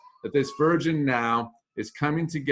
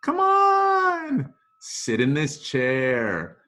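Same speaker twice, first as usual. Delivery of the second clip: reassuring groom; 4 semitones higher, 4 dB louder, slower than usual. Acted. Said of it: "and he says".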